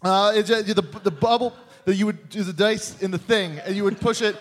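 halting hunt for the word; forgetful hack comic. Acted. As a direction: grope for the name onstage. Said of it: "just can't really remember".

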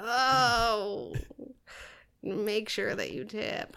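drawn-out, hammed-up deathbed groan; badly faked dying voice, slow; mock dying words. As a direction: slowly give pretend last words. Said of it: "And then I died".

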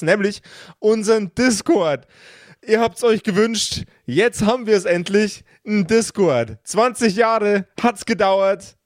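host announcing the new Discord with excitement; excited. Real, not acted. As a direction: hype up the news to listeners.

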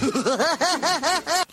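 high, wheezing burst of laughter. Real, not acted. Host laughing at the joke.

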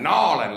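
Nawlin swallowed thick, like choking on a peanut. Shown as a demonstration. Comic mocks the local pronunciation, choked sound. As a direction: gag out Nawlin from the throat. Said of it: "like you're choking on a peanut".

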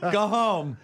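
high cartoon king calling out; Ice King. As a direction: sign off in a high, put-on villain voice. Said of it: "if the Ice King were delivering the".

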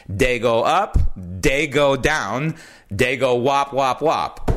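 a light sing-song imitation of his mom, lifting each up; mom's joke voice. Son imitating his Italian mom telling the helicopter joke, light singsong. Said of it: "but she said it like this".

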